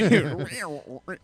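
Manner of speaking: mouth-made tape rewinding sound; tape rewind noise. Pretend. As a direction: imitate a tape winding back. Imitates winding the tape back.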